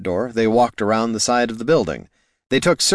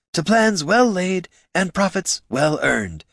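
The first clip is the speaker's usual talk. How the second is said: toasting gentleman; 10 semitones higher than usual. Acted. Baggs raises a toast.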